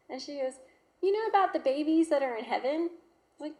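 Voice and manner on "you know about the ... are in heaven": put-on high, loud little girl voice; excited little girl asking; child's voice. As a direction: voice the young daughter asking brightly. Little daughter voiced in story.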